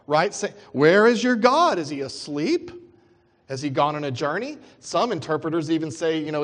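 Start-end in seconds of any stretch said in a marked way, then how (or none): 0.7-4.6 mocking. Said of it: "Elijah mocks the".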